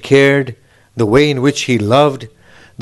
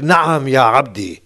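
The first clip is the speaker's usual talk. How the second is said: room answering; slower than usual. Retold or imitated. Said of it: "the whole room spoke".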